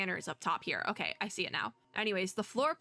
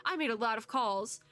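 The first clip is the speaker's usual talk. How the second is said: lightly acted panic, slightly raised; mildly panicking; 2 semitones higher than usual. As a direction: read it with a touch of panic. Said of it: "A panicking voice says".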